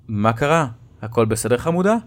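gently worried question to his daughter; a father checking on his little girl. Acted. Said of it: "שאלתי בדאגה".

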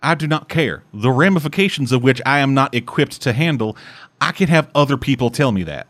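put-on a light Southern accent, dismissive; lightly imitating a Southern tycoon. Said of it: "I give him the Southern accent".

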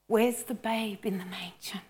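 whispered, unvoiced question; soft tearful whisper; hushed whisper. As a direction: breathe the question softly. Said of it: "Where is the babe in the manger".

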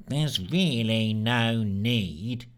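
slow, flat but irritated; a vexed monotone; dull and vexed. Acted. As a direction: say it bored yet annoyed. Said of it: "sound both dull and vexed".

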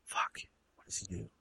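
very soft, whispery musing; real hushed pondering; thinking aloud. Real, not acted. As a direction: murmur to yourself while working it out. Thinking to self mid-brainstorm.

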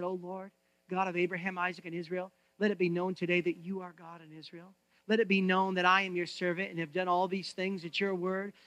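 soft, low, reverent plea; hushed prayer. Acted. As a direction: pray quietly and earnestly. Elijah prays at the altar.

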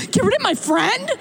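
squeaky disbelieving high question; a youth aghast at being told to drop a friend; shocked disbelief. Retold or imitated. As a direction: act appalled at the idea. Congregant shocked, high retort.

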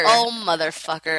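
shocked yelp; surprised shout. Real, not acted. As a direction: blurt it out in shock. Shocked reaction, shout heard.

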